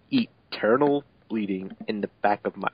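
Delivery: hoarse, slow whispered death line; mock dying whisper; breathy dying whisper. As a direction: rasp it out like a dying hero. Mock-dramatic fic reading.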